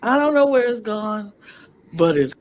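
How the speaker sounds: husky, raspy lost voice; hoarse voice. Real, not acted. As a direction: talk through a voice that's gone. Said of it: "my little husky, raspy voice".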